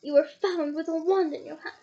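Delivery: mild accusing bark; a touch of an official's bark. Acted. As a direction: snap the accusation at the elf. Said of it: "barked Mister Diggory".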